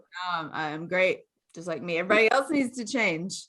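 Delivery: low mock-smug voice; lightly acted self-importance, pitched low; egocentric self-satisfaction. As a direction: play someone who thinks they're great. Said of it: "It's very egocentric".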